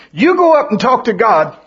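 high, loud mock panic; scared people. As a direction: beg Moses to go instead. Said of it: "And they said".

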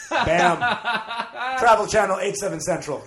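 loud, punchy mock promo; TV promo announcer. Capping a pun on Bourdain's show, mock TV announcer. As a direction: announce it like a channel tag.

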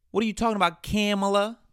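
real frustration calling her out; exasperated yell. Real, not acted. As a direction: demand an answer, fed up. Exasperated questioning.

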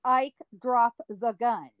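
slow, firm lawman order; stern command. Retold or imitated. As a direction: lay down the law slowly. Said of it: "I heard Wyatt call out to Ike".

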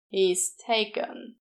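slow, flat-out final answer; curt reply. Acted. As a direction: shut the question down firmly. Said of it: "The one that came out was".

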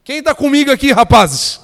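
loud, high call to the crowd; rallying shout. Real, not acted. Preacher calls on the lads to respond, rallying shout. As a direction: fire up the men for a response.

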